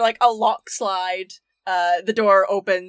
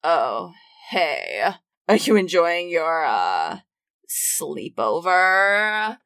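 lower, slow and bored sneer; dripping sarcasm, lower and slower; sarcastic teen drawl; 4 semitones lower, slower than usual. Acted. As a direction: roll the words out like a fed-up goth teen. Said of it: "gives you a once-over and goes".

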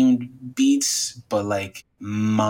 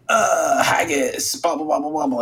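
lightly hammed-up Scottish caricature, pitched up; mock stereotyped Scot; 5 semitones higher than usual. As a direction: spew mock-Scottish gibberish. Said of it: "stereotype spewing".

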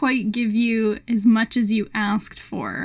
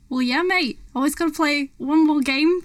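put-on New Zealand accent; 4 semitones higher than usual. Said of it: "You're making me do a New Zealand accent".

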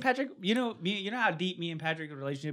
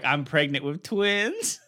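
laughing; 3 dB louder, much slower than usual. Real, not acted. Reading out a drunk friend's text.

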